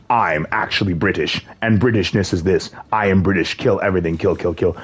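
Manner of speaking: slow, lightly mocking British accent; weird British accent. Mocking what British pessimists sound like now, in a weird British accent. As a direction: put on a stiff British accent, slowly. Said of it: "You get weird British accents".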